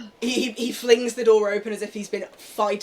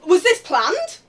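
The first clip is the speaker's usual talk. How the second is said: much higher, loud accusation; accusing shout; 12 semitones higher, 8 dB louder than usual. Acted. Boss turning on Julian, loud accusation. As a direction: turn on him and accuse.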